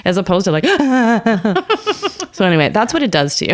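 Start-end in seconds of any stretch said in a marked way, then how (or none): 0.7-2.3 mock crying. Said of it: "It makes you a cry bag".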